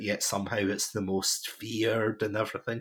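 usual speaking voice

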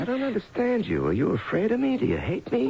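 rejected husband confronting his wife; hurt anger. Acted. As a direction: push her for the truth.

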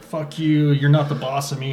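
mildly acted angry defiance; freaking out. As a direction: imitate a man flipping out, half-strength. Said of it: "he freaked out".

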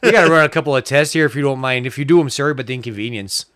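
lightly put-on Canadian accent. Co-host spoofing the actor going undercover on a job, mock Canadian accent. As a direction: play up a polite Canadian, eh. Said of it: "going Canadian".

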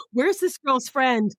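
high-pitched mock indignation; indignant onlooker. Co-host joking as onlookers seeing runner alone, mock-indignant bystander. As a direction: play a baffled bystander, quickening and rising.

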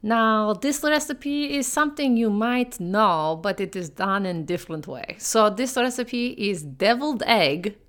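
hammed-up mock Russian accent, dropping articles; bad Russian accent. Maggie greets her co-host in a bad Russian accent. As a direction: play a cartoon Russian host badly. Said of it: "speak in bad Russian accents".

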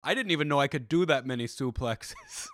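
put-on shitty Minnesota accent; badly faked Minnesota accent, close to Irish; Brock Lesnar. Wrestler surprised by his own suplexes, in a shitty Minnesota accent. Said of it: "I'm doing a shitty Minnesota accent".

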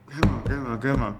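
mock frightened call to wake grandma; retold urgent calling. Retold crying child waking grandmother.

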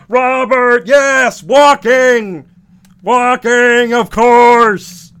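high, loud sitcom brother seizing an idea; Raymond. Acted. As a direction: exclaim with hammed-up delight. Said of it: "Raymond says".

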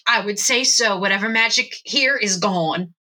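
measured, mistaken voice for a party member; wrong Zach voice. Acted. Game master slipping into another voice for Zach, measured. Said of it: "that's not Zach's voice".

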